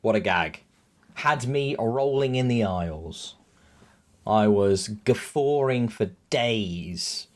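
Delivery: low, slow dry praise; mock the joke flatly; deadpan sarcasm. Real, not acted.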